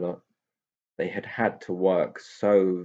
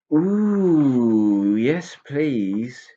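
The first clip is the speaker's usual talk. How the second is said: higher, delighted pixie gasp of joy; eager children's thrilled reply; 6 semitones higher, 5 dB louder, much slower than usual. A narrator's reading. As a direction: pixies answering the aunt's treat offer, delighted. Pixies delighted by jelly offer.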